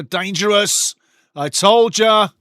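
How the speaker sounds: high, loud commentator's cry; excited alarm. Real, not acted. Commentator reacts live to a dangerous corner, excited and loud.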